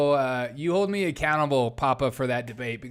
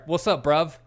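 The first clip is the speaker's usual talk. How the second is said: lightly put-on British greeting; British slang accent. Streamer greeting a UK viewer, mock British. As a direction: have a playful stab at British. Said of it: "I think that's the U K talk".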